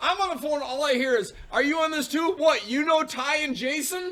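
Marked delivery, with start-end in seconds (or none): 1.5-4.1 play-acted, paranoid, suspicious yelling. Retelling how Tori yells at the mail person: imitating Tori yelling. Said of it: "Tori starts yelling at him".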